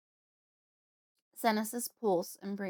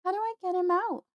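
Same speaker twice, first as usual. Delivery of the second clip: higher, louder, voice catching; fighting back tears; holding back tears; 12 semitones higher, 6 dB louder than usual. Acted. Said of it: "Her voice hitches as she tries not to cry".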